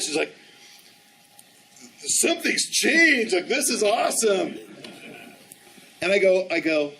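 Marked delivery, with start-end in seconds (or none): 2.0-4.6 retold amazement. Wife amazed by the change.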